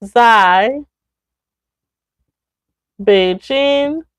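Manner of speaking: word by word, long pauses; slow model sentence. Shown as a demonstration. Teacher repeating the negative example slowly. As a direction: break the sentence into single words for learners. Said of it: "Then 这不是在北京买的。".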